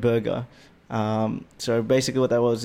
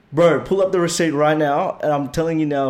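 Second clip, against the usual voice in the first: louder, higher, insisting; pushing the manager to check; retold demand; 4 semitones higher, 4 dB louder than usual. Retold drive-thru argument.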